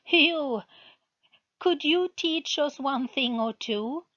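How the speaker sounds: high, squeaky and scornful; bright squeaky voice. A narrator's reading. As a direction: sneer it in a thin squeaky voice. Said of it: "He had a bright and squeaky voice".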